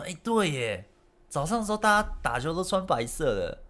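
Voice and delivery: high-pitched retold "oh right"; lightly acted dawning surprise; sudden realisation. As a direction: replay it dawning on you. Retelling realising the mix-up.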